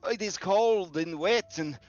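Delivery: high, stammering frightened plea; terrified commoner. Acted. Random man pleading with the Baron, high and terrified. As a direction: beg for mercy, tripping over every word.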